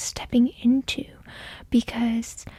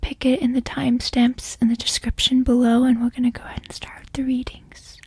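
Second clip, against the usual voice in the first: whispering; faster than usual. Real, not acted. ASMR tarot whisper.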